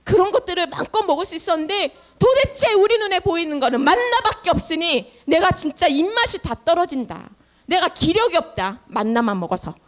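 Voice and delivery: acted grumbling. Israelites sick of eating only manna, grumbling. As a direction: whinge like a crowd sick of the same meal. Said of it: "막 이러면서 막 백성들이 불평불만에".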